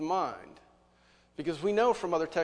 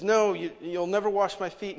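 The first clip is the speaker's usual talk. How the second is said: emphatic refusal; 4 semitones higher, 6 dB louder than usual. Acted. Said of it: "He says".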